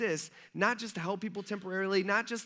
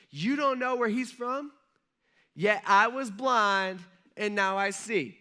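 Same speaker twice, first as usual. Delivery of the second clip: testy; 3 semitones higher, 5 dB louder, slower than usual. Retold or imitated. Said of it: "getting a little testy".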